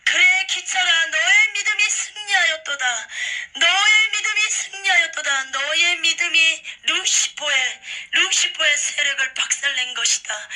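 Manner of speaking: loud, high, proclaiming voice from the throne; booming joyful divine voice; joyful voice of Jesus. Retold or imitated. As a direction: ring it out like a jubilant king blessing his servant. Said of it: "예수님의 음성이 보좌에서 너무나 기쁜 음성으로".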